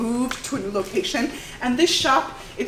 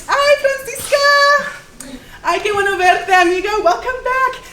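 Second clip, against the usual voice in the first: excited welcome; 12 semitones higher, 11 dB louder than usual. Acted. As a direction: sing out a delighted hello to an old friend. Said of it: "really excited to see her friend".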